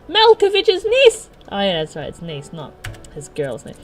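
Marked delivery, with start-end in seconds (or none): 0.1-1.3 very high, loud, stretched-out shriek; full scream in accent. Acted. John at a catcaller, escalating outraged scream. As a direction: blow up on the words, drawn out slowly. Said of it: "screaming at him in that peculiar accent".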